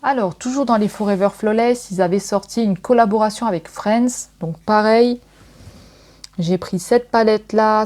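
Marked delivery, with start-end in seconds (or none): none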